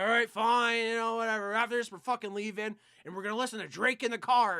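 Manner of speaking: put-on resigned drunk outburst. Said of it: "I'm like".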